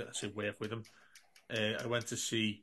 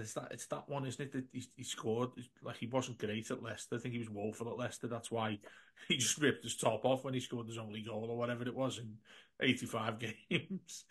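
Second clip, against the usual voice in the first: hushed gossip about the striker, much softer; retold whisper; 6 dB quieter than usual. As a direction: keep it down and chuckle under your breath. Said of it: "So I whispered".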